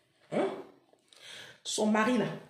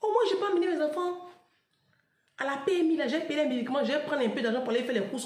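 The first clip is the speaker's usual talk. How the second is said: friend's excuse; 5 semitones higher than usual. Retold or imitated. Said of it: "Elle dit".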